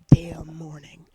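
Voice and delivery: hushed curse, breathy; whispering. Real, not acted. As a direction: whisper the swear.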